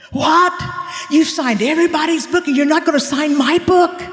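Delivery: protest, half joking; indignant surprise. Retold or imitated. Young man protesting she won't sign his book, high and indignant.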